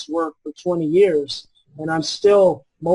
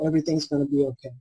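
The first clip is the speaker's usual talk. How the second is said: soothing reassurance; 2 semitones lower, 5 dB quieter, faster than usual. Shown as a demonstration. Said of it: "You say to your child".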